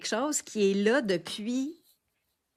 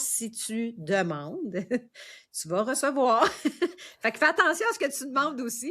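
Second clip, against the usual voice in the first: amused warning. Real, not acted. Co-host jokes about getting wishes.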